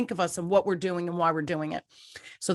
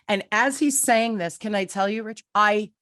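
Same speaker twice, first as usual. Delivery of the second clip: emotional, tearing up; 3 semitones higher than usual. Real, not acted. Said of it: "I was crying".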